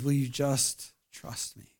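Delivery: hushed, slow appeal; soft pleading. Acted. Tender appeal in prayerful close.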